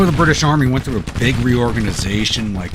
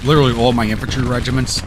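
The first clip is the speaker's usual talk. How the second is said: higher and louder, thrilled; excited; 4 semitones higher, 6 dB louder, faster than usual. Real, not acted. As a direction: build up the excitement. Excited battle commentary.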